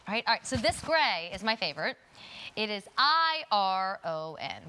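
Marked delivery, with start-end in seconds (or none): 2.5-4.6 spelling I R O N slowly; letter by letter, I R O N; spelling out iron. Shown as a demonstration. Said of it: "Why I can't say that word".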